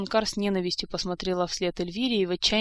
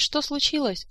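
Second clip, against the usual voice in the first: high-pitched indignant echo; acted squeal of disbelief and accusation; outraged squeal; 8 semitones higher than usual. A narrator's reading. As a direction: throw the question back in outrage. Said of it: "взвизгнула графиня Манкар".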